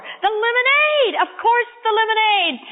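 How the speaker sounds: remember it all at once; sudden remembering. Acted. Boy suddenly recalls what he came for, exclaiming.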